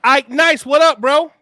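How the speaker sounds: big shout-out to a friend joining; loud greeting. Real, not acted. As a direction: call out to the new guest like a hype man. Hyping up a new guest.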